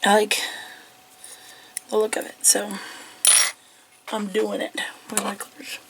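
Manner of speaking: talking around a cough drop; words round a lozenge; cough drop in mouth. Real, not acted. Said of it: "Sorry if you hear me with a cough drop in my mouth now".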